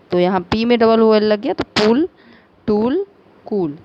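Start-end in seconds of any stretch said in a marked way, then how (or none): 1.6-3.8 पुल, टूल, कूल spaced out, sharing the "ool" ending; rhyming pronunciation demo. Shown as a demonstration. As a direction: model each "ool" word separately. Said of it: "इस तरह से हो गया".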